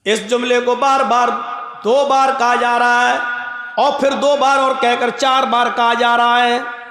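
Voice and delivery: steady sermon chant on one note; intoned preaching. Real, not acted. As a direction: intone each phrase evenly. Preaches on a held tone. (एक सुर में तक़रीर)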